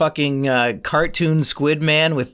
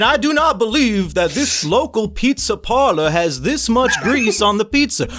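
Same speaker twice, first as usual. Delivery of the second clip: a hint of a Southern accent, pitched higher; mock Southern detective accent, pitched up; Benoit Blanc accent; 6 semitones higher than usual. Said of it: "I can't do the accent while trying to be funny".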